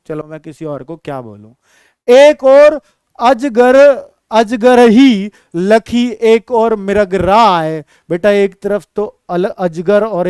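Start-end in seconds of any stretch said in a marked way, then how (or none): 2.1-7.8 slow, drawn-out poem recital; slow recitation. Shown as a demonstration. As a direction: chant the verse line slowly. Teacher recites verse line. (धीमा काव्य पाठ)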